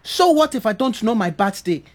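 defensive, low-pitched retort; touchy, mildly angry insistence. Acted. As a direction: push back, wounded by the pity. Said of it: "Why are you so angry?".

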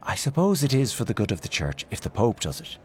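a touch of heated protest; fierce. Acted. Aunt Kate rebuking her niece Mary Jane, mildly fierce. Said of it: "Aunt Kate turned fiercely on her niece".

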